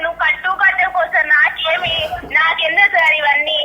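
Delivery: heated loud retort. Real, not acted. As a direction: push your point hard over the phone. Agent argues heatedly with customer.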